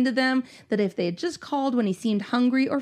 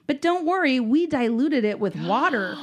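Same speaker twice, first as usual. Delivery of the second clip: mock reassurance; 3 semitones higher than usual. Grandfather to worried mother about the milk, mock-reassuring. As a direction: imitate a grandfather assuring her it's fine. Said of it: "my grandfather assured".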